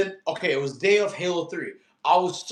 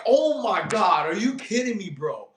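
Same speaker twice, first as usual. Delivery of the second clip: retold frustration; 4 semitones higher than usual. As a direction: relive the moment the console died. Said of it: "I was so furious".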